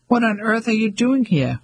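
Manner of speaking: a mother caught off guard by her son's arrival; astonished question; surprised. Acted.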